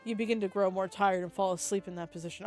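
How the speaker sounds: even, measured read-aloud; story narration. A narrator's reading. Player reading of sculptor at work, story narration. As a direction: narrate it calmly, phrase by phrase.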